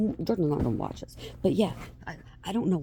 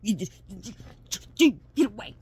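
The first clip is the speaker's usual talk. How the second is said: mock offended; 4 dB louder than usual. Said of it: "I said".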